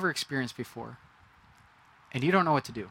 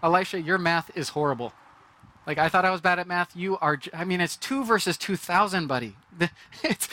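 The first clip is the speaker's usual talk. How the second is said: mildly sarcastic, disbelieving retort; incredulous servant; 3 semitones higher than usual. Pretend. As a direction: tease the prophet's bad math. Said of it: "my first thought is".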